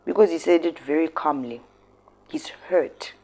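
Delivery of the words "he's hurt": soft unvoiced whisper. Real, not acted. Vlogger whispering about the hurting father. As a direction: breathe it out in sympathy.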